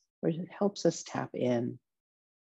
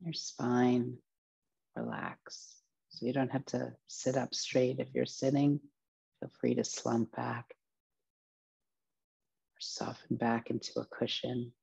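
guided meditation. Acted. Teacher relaxing listeners from feet upward, guided meditation voice. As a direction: ease each body part into rest, phrase by phrase.

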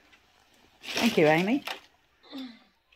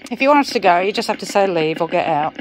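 calling out; 7 dB louder than usual. Real, not acted. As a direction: call out firmly into the room. Calling out to the spirit.

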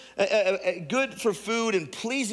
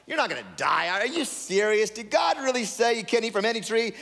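scoffing, rising higher toward the end; a lightly voiced devil sneering at God's rule; mocking devil; 4 semitones higher than usual. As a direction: devil taunting the woman, mocking disbelief. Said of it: "the devil starts to mock".

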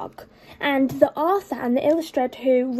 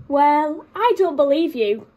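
barked; 2 semitones higher, 4 dB louder than usual. Acted. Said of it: "barked the dog".

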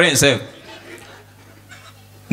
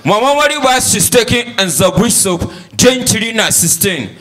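put-on child reciting; 3 semitones higher than usual. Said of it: "He say".

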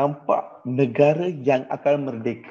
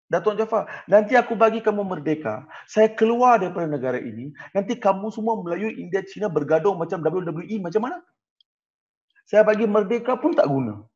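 higher-pitched mock British official; British officer; 6 semitones higher than usual. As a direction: lecture the locals like a smug colonial officer. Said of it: "British beritahu semua".

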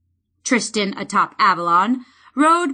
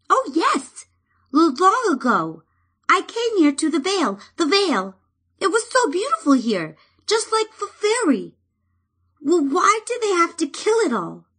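high, stammering sprite voice, sad; wistful fairy; 9 semitones higher than usual. Acted. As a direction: remember the lost beauty tenderly. Fairy remembers, grieving.

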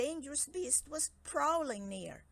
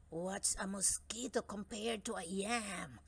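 a lightly voiced grumpy iguana snapping. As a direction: snap it out, a touch grumpy. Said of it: "snapped the iguana grumpily".

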